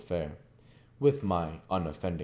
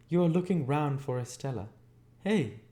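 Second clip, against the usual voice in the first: put-on high, sly old woman, louder on Hey; taunting old lady; 9 semitones higher, 3 dB louder than usual. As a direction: catch him out and needle him. Miss Havisham taunts Pip.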